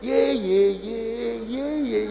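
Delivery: dancing cheer. Acted. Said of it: "joget dia".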